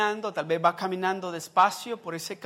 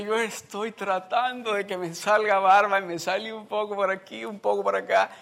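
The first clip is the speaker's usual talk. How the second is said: put-on boy's voice; 3 semitones higher, 3 dB louder than usual. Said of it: "Porque dice".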